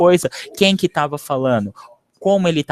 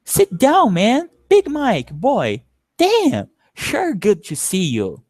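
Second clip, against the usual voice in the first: acting out movie scene; 3 semitones higher, slower than usual. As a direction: play the homeboys welcoming Big Mike. Teacher performs movie dialogue.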